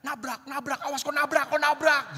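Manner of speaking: high, loud shouting warning; panicked yell. Retold or imitated. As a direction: yell at the driver to watch out. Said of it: "lalu Anton teriak".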